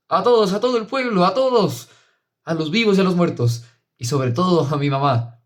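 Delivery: high, tearful, overflowing joy; overjoyed. A narrator's reading. Sister hugging her brother after his communion, overjoyed.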